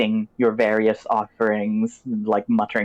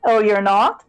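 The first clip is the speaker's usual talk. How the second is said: high, loud surprised crone; feigned surprise as old hag; witch voice; 10 semitones higher, 5 dB louder than usual. Acted. Crone reacts to refusal.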